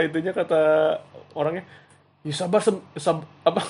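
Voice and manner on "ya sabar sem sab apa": grumbling. Retold or imitated. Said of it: "Dia ngedumel".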